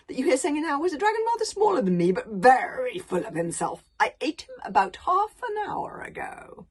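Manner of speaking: a giant savouring every word of his philosophy; pompous dragon philosopher. Acted. Dragon lecturing Hiccup on life, loud and grandiose.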